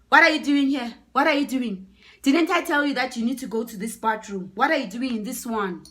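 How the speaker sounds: loud, high scolding; acted furious reprimand; angry telling-off. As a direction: bark it like an outraged man catching a trespasser. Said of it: "the guy was so angry".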